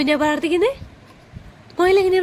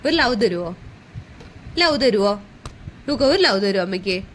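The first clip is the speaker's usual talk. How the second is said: low-pitched, coaxing plea; tender coaxing; 8 semitones lower than usual. Real, not acted. Parent asks little child for a hug, tender low coaxing.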